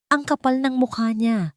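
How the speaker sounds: high-pitched angry exclamation; indignant outburst. A narrator's reading. Friend outraged at the cheating husband, exclaiming. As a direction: burst out in outrage for her friend. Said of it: "bulalas ni Ana".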